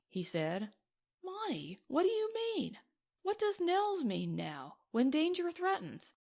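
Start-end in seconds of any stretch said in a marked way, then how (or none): 1.2-6.1 alarmed. Acted. Madeline alarmed at the resignation.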